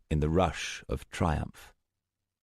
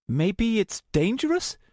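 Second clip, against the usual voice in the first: higher, doubtful voice; doubtful young woman. A narrator's reading. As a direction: wonder aloud, unsure. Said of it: "Luna asked doubtfully".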